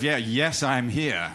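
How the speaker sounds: put-on a Brit hamming up an eager American accent. Brit mimics excited American audience in a mock American accent. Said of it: "I can't really do the American accent".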